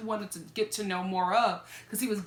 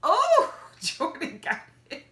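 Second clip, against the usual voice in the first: impressed; 6 semitones higher, slower than usual. Retold or imitated. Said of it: "I'm like".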